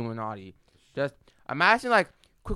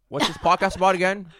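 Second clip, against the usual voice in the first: louder; 4 semitones higher, 5 dB louder than usual. Shown as a demonstration. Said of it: "Oh, what's this podcast about again?".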